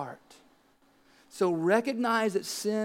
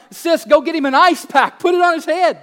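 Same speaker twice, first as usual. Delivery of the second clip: calling to daughter; 7 semitones higher, 9 dB louder than usual. Retold or imitated. Parent instructing child.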